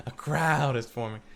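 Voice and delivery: laughing through the line. Shown as a demonstration. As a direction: chuckle while saying it.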